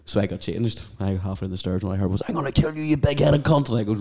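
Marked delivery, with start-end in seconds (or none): 2.3-3.7 higher-pitched mock outrage; high-voiced mock threat; retold angry threat. Retelling an angry woman's threat.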